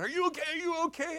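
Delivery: high, quick concerned questions; imitated worried staff. Staff checking on shaken preacher, mock-worried high voice. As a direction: imitate anxious helpers running up.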